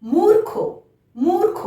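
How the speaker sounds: teacher modelling মূর্খ with a clear র; model pronunciation. Shown as a demonstration. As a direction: sound র clearly before খ in মূর্খ. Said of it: "তার আগে র উচ্চারণ হলো".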